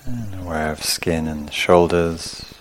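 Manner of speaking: calm, unhurried meditation guidance in short phrases; guided meditation. Real, not acted. Teacher leading sitters through awareness of skin, calm guided meditation. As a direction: guide them through the body, leaving long pauses. Leads a body-scan meditation.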